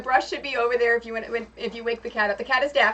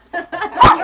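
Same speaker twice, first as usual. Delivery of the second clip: very high, louder coaxing call with a rise; coaxing a pet; 12 dB louder than usual. Real, not acted. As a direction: sweet-talk the cat into your arms. Coaxing the cat Alfred.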